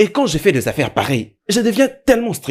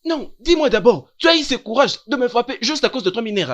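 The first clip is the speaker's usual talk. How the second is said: aghast disbelief; 5 semitones higher than usual. Acted. Teacher aghast at being hit. (indignation stupéfaite, lente et aiguë)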